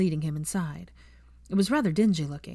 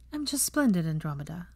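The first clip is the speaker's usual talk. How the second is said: cheerful. Acted. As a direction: sing out a cheery greeting. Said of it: "said Hermione cheerfully".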